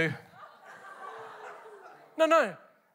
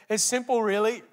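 put-on light Korean accent. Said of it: "In his Korean accent".

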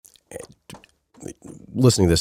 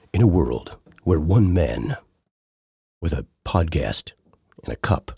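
movie trailer voice; slower than usual. Acted. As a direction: announce it like a film trailer. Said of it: "movie trailer voice right now".

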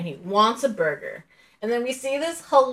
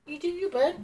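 breezy dismissal; 9 semitones higher, 8 dB quieter than usual. Retold or imitated. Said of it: "I'd be like".

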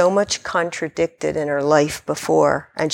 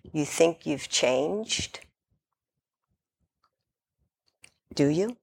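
caterpillar question; 8 dB quieter, slower than usual. A narrator's reading.

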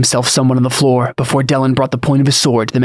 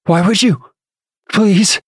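high-pitched frightened begging; terrified pleading; 8 semitones higher, slower than usual. A narrator's reading. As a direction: plead for your life. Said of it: "eyes wide with terror".

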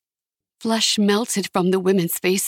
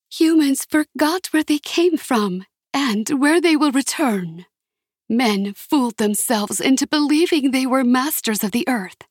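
raised, ringing goddess voice; high voice; 3 semitones higher than usual. Acted. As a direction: proclaim it like an ancient earth goddess. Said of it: "sang in a high voice".

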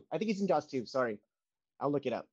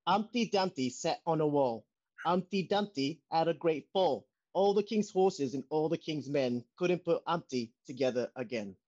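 Michael Caine reading. Acted. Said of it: "my impression of Michael Caine reading Humpty Dumpty".

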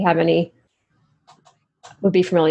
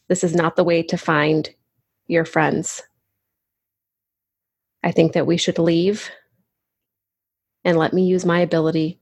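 mildly gentle, measured plea. Acted. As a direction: speak with understated gentleness, pausing between phrases. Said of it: "very gently say".

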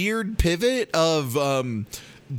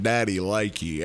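creepy date line; 7 semitones lower than usual. Retold or imitated. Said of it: "you can just be like".

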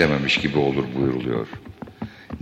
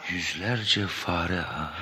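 slow, hushed dismay; horrified dismay; 10 dB quieter, much slower than usual. Acted. Prisoner learns of hundreds of hungry rats, horrified dismay. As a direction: murmur it slowly, stricken.

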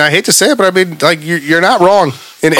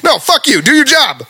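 high, heated, fed-up telling-off; real angry rant; 10 semitones higher than usual. Real, not acted. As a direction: snap at the lazy blocker. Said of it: "sorry, I'm angry".

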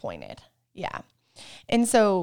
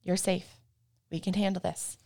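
soft self-reassurance. Shown as a demonstration. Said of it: "maybe you're even saying out loud".

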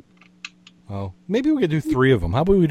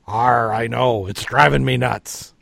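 pirate voice; slower than usual. Acted. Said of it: "The pirate says".

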